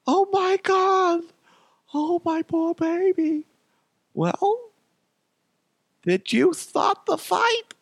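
slow, very high falsetto mother; hammed-up motherly dismay; mock doting mom. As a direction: coo and fret in squeaky falsetto. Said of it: "and my mom's like".

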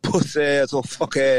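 lightly put-on Florida accent; a hint of Florida twang on the insult. Imitating Florida boys, light Florida accent. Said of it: "my Florida voice".

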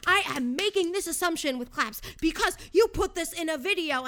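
mocking a commenter. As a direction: sneer it like the smug commenter. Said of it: "He's like".

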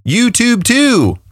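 high, slow drawn-out YouTube too; hype echo. Acted. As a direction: stretch out the too, sing-song. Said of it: "It just sounds funny to say".

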